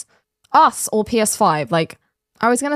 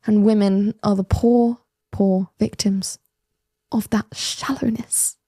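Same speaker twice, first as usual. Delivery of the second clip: mock pity. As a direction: feign pity, letting the last words sink away. Mock pity for poor victims.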